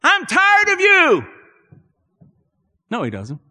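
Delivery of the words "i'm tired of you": very high, slow, exasperated put-on voice; mock weary Jesus. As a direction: ham up a fed-up sigh of a line. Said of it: "he looks upon it and he goes".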